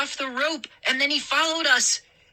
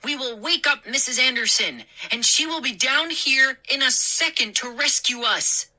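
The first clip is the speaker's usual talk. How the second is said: high, insistent threat; demanding threat; 8 semitones higher than usual. Acted. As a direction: threaten them, bold and high. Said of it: "I demanded".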